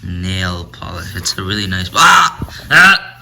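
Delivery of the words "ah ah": surprised. Real, not acted. Sudden surprise.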